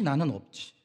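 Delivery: usual speaking voice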